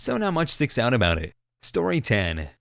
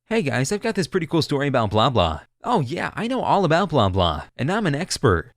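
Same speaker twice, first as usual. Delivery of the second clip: lightly hammed-up eager boasting, pitched up; mock know-it-all; 3 semitones higher than usual. One-upper butting into a friend's story, mock boastful eagerness.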